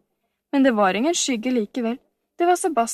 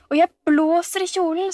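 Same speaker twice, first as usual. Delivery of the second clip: high, protesting outburst; indignant cry; 7 semitones higher, 3 dB louder than usual. A narrator's reading. Camilla dismissing the new dress to Sofie, crying out. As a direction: cry it out crossly, pitched up. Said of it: "skrek Camilla".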